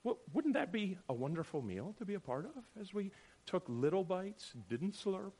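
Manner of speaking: sarcastically dreamy; dripping sarcasm. Acted. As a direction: drip sarcasm over the lovely scene. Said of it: "You hear me dripping sarcasm".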